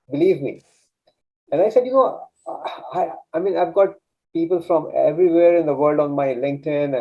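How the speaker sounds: acting out past self, insisting no niche; retold own doubt. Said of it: "Exactly this is what I said".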